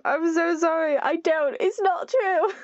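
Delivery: high, plaintive denial; pleading apology. Real, not acted. Player taking back cruel words to the character, pleading apology. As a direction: squeak out an upset retraction.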